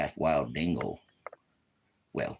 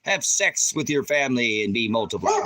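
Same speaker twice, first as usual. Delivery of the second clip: loud proclaiming; 9 semitones higher, 10 dB louder than usual. Acted. Proclaiming Old Testament lines to the camera, loud proclaiming. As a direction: holler it out high and loud.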